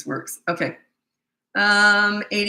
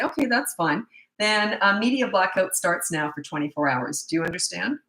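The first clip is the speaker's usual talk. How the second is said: calm, even-toned parent laying down a consequence. Shown as a demonstration. Parent announcing media blackout to a child, calm consequence. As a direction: state it calmly, without anger. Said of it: "And that's how I say it".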